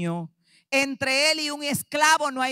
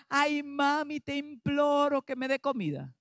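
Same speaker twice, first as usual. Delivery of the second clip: softer, mock whimper of a begging child; mock begging plea; 6 dB quieter than usual. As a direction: imitate a child begging on its knees for food. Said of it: "Se tira de rodillas y comienza a llorar". (niño suplicando de mentira, más suave)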